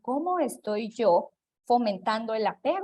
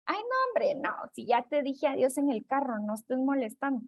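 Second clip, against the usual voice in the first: dismissive parent; 3 semitones higher than usual. Retold or imitated. Parent refusing the child's hug, mildly exasperated. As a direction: wave the kid away, annoyed.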